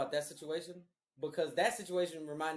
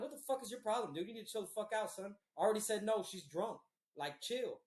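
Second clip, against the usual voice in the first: angry; 5 semitones higher than usual. Retold or imitated. Retold confrontation with drunk cousin.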